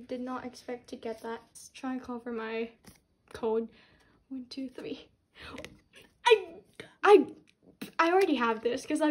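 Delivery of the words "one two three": hushed countdown before the reveal; whispered count. Real, not acted. Fan whispering a countdown before opening the card. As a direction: whisper the count under your breath.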